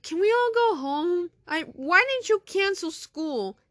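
put-on high, loud whining kid; whiny kid. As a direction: beg to go home.

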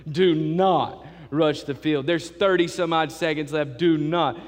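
slow, haughty PA announcement; arrogant announcer. Retold or imitated. Pastor mocking high-and-mighty stadium announcer, slow haughty tone. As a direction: lord it over the fans, drawn out. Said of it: "All high and mighty and arrogant".

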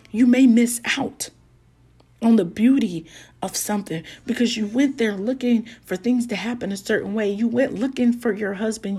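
rising preaching cadence. Acted. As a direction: preach it to the congregation. Preaching builds up.

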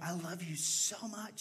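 drawn-out words to a mum on the phone; slow emphatic affection. Retold or imitated. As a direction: say it slowly, stretching each word. Slow talk to mom on phone.

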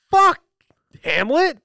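high, loud shouted curse. Retold or imitated. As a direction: yell it in pain and anger. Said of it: "I almost was like".

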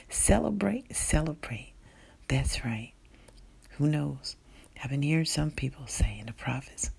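prayer. Acted. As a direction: pray over listeners gently. Pastor leads a prayer.

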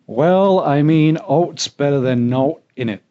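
Yorkshire saying, read out as a demo; best Yorkshire accent. Shown as a demonstration. Host demonstrates saying number three for guest, best Yorkshire accent. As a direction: give it your Yorkshire accent. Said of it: "do it in my best Yorkshire accent".

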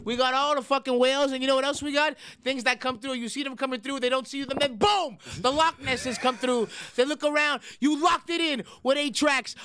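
a hammed-up sales pitch for the picks; a lightly pumped-up streamer pitch; hype streamer pitch. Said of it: "full Twitch mode there".

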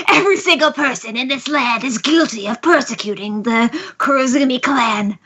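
mildly theatrical accusing villain. Acted. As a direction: put on a makeshift villain voice. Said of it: "I need to do a good voice".

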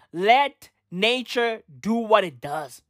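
ordinary talk

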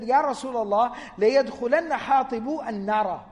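angry complaint. Retold or imitated. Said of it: "He was really angry and upset".

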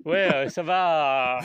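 voix rotée, étirée et lente; parler en rotant. Real, not acted. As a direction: dire la phrase en plein rot. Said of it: "Dit-il en rotant son alcool". (parole rotée après la bière)

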